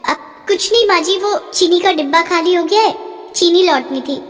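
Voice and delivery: lightly voiced young bride covering up; young daughter-in-law.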